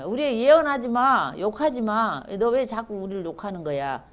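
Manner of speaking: mock objection from offended hearers; acted protest. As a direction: voice the annoyed listeners telling the prophet to stop. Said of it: "그 듣는 사람들이 말하기를".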